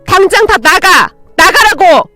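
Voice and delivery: high, loud, enraged shout; frantic screaming. A narrator's reading. Daughter losing control at the quarrel, screaming. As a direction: scream them out of the house. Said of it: "미친 사람 마냥 소리를 질러댔고".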